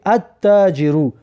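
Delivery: "التاجر" as at-taajiru with a doubled T; silent L. Shown as a demonstration. Teacher demonstrating a sun letter, silent L in "التاجر". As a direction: leave out the L in "التاجر" and hold the T. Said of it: "لام تلفظ نکرده".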